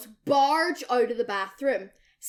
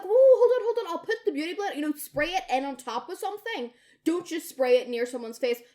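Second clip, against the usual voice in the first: alarmed shout; 6 semitones higher, 5 dB louder, faster than usual. Retold or imitated. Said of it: "So I'm like".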